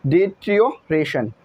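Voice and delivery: "डिट्रियोरेशन" slowly, split before "रेशन"; careful pronunciation demo. Shown as a demonstration. Teacher asking for correct pronunciation, careful "डिट्रियोरेशन". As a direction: model "डिट्रियोरेशन" chunk by chunk. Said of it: "इसकी pronunciation सही कर लेना".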